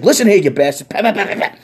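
high, loud scolding granny; old lady scolding. Retold or imitated. Elderly woman scolds the officer, loud high granny voice. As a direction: tear into him like a furious grandma.

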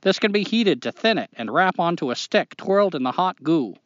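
put-on reading a letter in a Maine accent. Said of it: "do the whole thing in a Maine accent".

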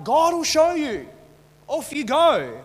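high, loud, drawn-out brush-off; mock breezy Paul. Preacher imitating Paul brushing off Timothy, breezy. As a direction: send them off with a sing-out dismissal.

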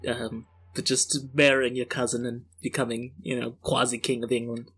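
put-on mixed Yorkshire and Cockney British accent, gruff bloke. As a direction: play a British everyman, drifting between regions. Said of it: "like, a Yorkshire type thing".

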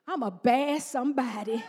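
low, laughing "I'm a bad somebody"; laughing declaration. Shown as a demonstration. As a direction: say it with a playful grin. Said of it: "this is what I want you to say".

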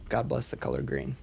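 breathy whispered last line; whispering. Shown as a demonstration. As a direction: whisper it like a secret. Whispered end of the lyric.

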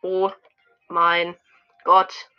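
loud thrilled gasp; loud delighted exclamation. Real, not acted. Thrilled reaction to skin.

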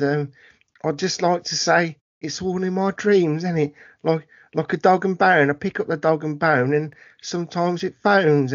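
hammed-up Cockney Moon Knight; bad Cockney accent. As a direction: do a really bad Cockney geezer. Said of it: "real bad Cockney accent".

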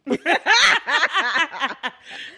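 big high burst of laughter; loud laugh. Real, not acted. Laughing at her own joke.

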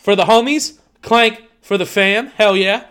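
loud excited cheers; hype toast. Acted. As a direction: raise a glass and hype it.

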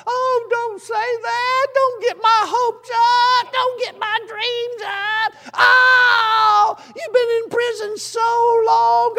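very high, slow, tearful mother's wail; crying mama. Retold or imitated. Mother on the phone crying that her boy is coming home, high tearful wail. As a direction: cry out like an overwhelmed mother.

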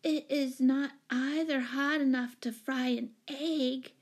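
put-on slow, high little-girl reproach; reproachful. A narrator's reading. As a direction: drag it out as an injured complaint. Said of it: "she said reproachfully".

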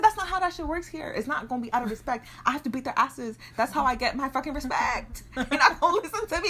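high, loud mock shouting; mock yell. Telling siblings in Nigeria how respect is earned, loud. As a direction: bark it out like a tough older sibling.

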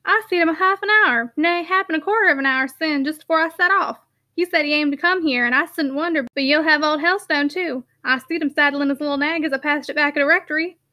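jovial broad northern workman; Yorkshire constable voice. Acted. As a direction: coax him like a bluff Yorkshireman. Sugden voiced by narrator.

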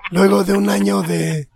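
real hoarse throat. Real, not acted. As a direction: talk through a hoarse throat. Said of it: "es que ando ronco".

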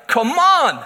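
a loud, laughing "Come on!"; colleague's impression of the quirk. Colleague mimics Tobias's quirk, laughing and loud. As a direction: shout it out like a catchphrase. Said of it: "Zweitens machst du so und sagst".

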